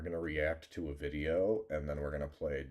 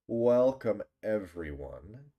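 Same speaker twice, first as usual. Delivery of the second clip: hyped intro; 4 semitones higher, 7 dB louder, slower than usual. Acted. Restarting the stream intro.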